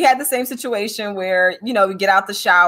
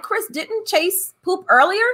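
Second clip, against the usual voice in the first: mild mock yell to a partner; calling over with a question; retold calling out; 9 semitones higher than usual. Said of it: "I'm yelling at Chris".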